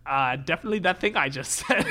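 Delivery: tailor voice breaking into laughter; laughing in character. Acted. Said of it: "speaks in a voice like this".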